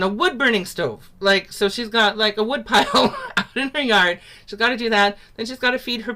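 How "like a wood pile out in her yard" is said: chuckling through the words; a light laugh running under the line. Real, not acted. Teacher laughing while describing the village woman's chores.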